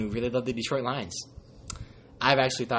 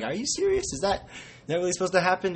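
incredulous; 5 semitones higher than usual. Retold or imitated. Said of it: "but some were like".

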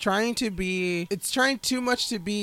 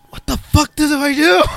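laughing confusion; 5 semitones higher, 12 dB louder than usual. Retold or imitated. Lost in captain's chair.

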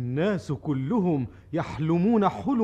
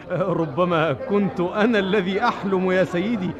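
laughing; 3 dB louder than usual. Acted. Laughs off the dream.

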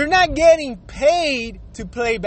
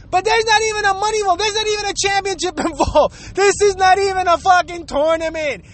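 higher, fast exasperated rant; ranting anger; 5 semitones higher than usual. Real, not acted. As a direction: vent it, pitch climbing with annoyance. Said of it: "I have a lot of ranting anger".

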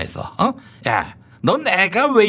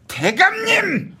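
higher, slow drawn-out call; hammed-up calling out; 11 semitones higher, much slower than usual. New official announcing himself, higher and slow. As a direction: call out grandly across the room.

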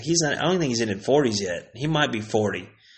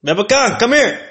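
high, loud yelps with gaps between; short, high-pitched mock shouts; imitated dad calling out; 10 semitones higher, 5 dB louder than usual. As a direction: holler for the kids way up high. The dad calls out again.

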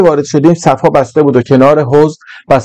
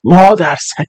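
high, involuntary curse from sudden pain; blurted curse; 5 semitones higher, slower than usual. Acted. Narrator plunges foot in icy water, blurts a high curse. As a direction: let it slip out as the cold water bites. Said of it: "بی اختیار از زبانم در رفت".

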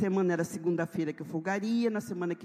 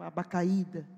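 normal talking voice

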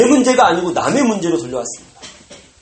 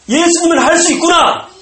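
sudden realization; 11 semitones higher, 7 dB louder than usual. Acted.

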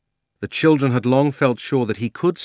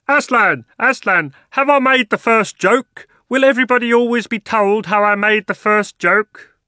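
much higher, louder chattering bird; excited jackdaw; 12 semitones higher, 9 dB louder than usual. Acted. The jackdaw asking Aslan about his joke, high and eager. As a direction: squawk eagerly like a proud little bird.

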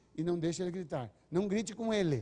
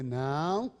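warning no; 3 semitones lower, 3 dB louder than usual. Retold or imitated.

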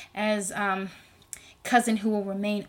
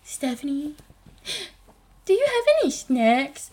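younger brother begging; 5 semitones higher than usual. Retold or imitated. Sister mimics brother asking her for snacks, wheedling. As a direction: put on a brother pestering for food. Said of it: "he's like".

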